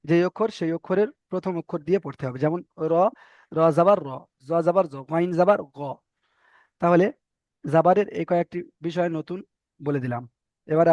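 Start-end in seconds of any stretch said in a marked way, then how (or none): 2.4-5.8 র, জ and গ with rounded "aw" vowels; rounded mouth. Shown as a demonstration. Teacher gives examples of the rule, rounded র, জ, গ. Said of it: "মুখ গোল করে".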